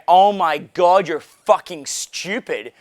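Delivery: slow, playful mock insult; affectionate tease, not meant harshly; teasing insult. Shown as a demonstration. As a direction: drawl it out like a friendly jab. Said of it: "just the way that I said it there".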